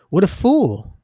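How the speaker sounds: breathy whispered aside; a scornful whispered jab. Real, not acted. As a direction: hiss it under your breath. Whispered aside about a fool.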